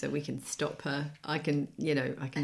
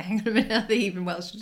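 mock realisation; 4 semitones higher, 4 dB louder, faster than usual. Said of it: "but then I was like".

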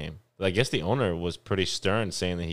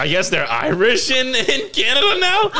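loud, high, hammed-up Irish-ish accent; bad Irish-ish accent; 9 dB louder than usual. Friend mocking the dad in a bad Irish accent. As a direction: ham up a bad Irish lilt. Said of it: "my accents are horrible".

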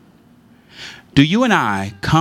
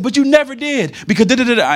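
put-on pitched-up complaining kid voice; retold accusation; 3 dB louder than usual. Young son levying accusations at mother, mock whine. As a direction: whine the grievance at mom. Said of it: "I said".

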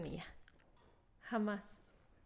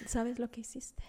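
whispered quote; 5 dB quieter than usual. Retold or imitated. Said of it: "y yo así de".

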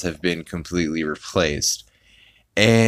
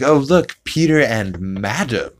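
bright showman voice; 5 semitones higher than usual. Retold or imitated. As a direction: announce the puppet brightly. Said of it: "he's like".

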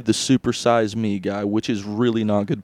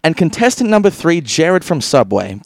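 game show host; 4 semitones higher, 4 dB louder than usual. Pretend. Announcing contestants.

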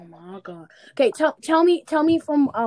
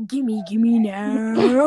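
greedy demand; 3 semitones lower, 6 dB louder, much slower than usual. Pretend. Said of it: "Just be like".

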